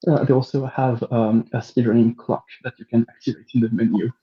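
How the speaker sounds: muffled, like a hand over mouth. Real, not acted. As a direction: speak through a covered mouth. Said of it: "you're coming in very muffled".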